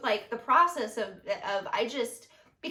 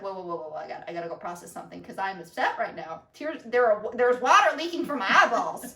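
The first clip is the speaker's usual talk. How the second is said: goofy; 3 semitones lower, 4 dB louder than usual. Shown as a demonstration. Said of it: "in that, like, goofy way".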